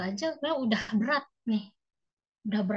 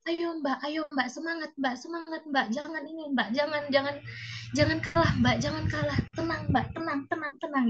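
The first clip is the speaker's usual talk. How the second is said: soothing nurse; 5 semitones higher than usual. Retold or imitated. Nurse calming her down.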